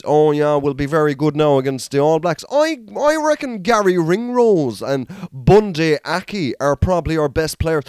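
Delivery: lightly put-on posh Irish rugby-fan accent, slowing down; smug posh Irish rugby fan talking up the team; mock posh Irish rugby accent. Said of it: "even their accents".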